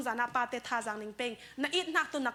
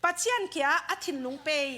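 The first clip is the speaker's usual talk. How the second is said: very slow reading; much slower than usual. Shown as a demonstration. Slowly reading out a phrase.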